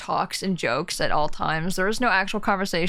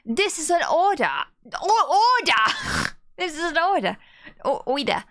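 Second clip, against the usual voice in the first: stern warden order; 7 semitones higher than usual. Acted. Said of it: "I am the warden".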